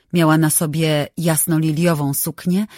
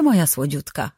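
fałszywie przymilny. Acted. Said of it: "Głos miała promienny i fałszywie przymilny".

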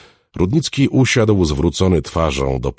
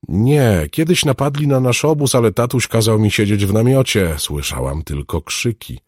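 put-on high, louder child recounting; earnest little girl; 9 semitones higher, 5 dB louder than usual. Girl recalls the attack on camp, earnest. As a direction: tell it in a raised girlish pitch.

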